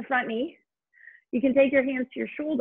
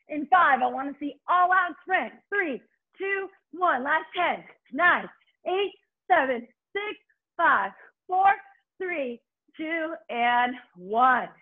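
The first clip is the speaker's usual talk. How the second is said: aerobics instructor; 3 semitones higher, slower than usual. Real, not acted. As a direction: count them through the sprint. Coach counting sprint intervals.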